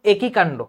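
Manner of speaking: একই with a closed initial "e"; closed e sound. Shown as a demonstration. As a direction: say একই as "eki", not "æki". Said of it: "এ উচ্চারণ করতেছি". (এ ধ্বনি দিয়ে একই)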